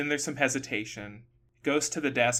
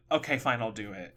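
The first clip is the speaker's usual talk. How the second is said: mock reluctant giving in, dropping away; grudging agreement; 4 semitones lower than usual. Woman retold accepting dinner with a pushy stranger, grudgingly.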